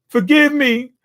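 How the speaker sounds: high, desperate plea for mercy; begging. Retold or imitated. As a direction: squeak it out like a cowering monster. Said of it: "he's begging for his aunt".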